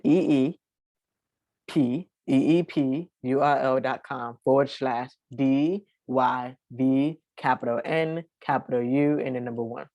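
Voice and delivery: slow, spaced-out reading of a web address; very slowly. Real, not acted. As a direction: spell it out slowly, letter by letter. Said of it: "I'm gonna read it very, very, very slowly".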